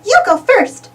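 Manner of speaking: high, lightly giggly mouse voice; a touch of giggle through the words; giggling Minnie. Acted. Minnie inviting Goofy to tell the tale, giggly. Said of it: "Minnie giggles and says".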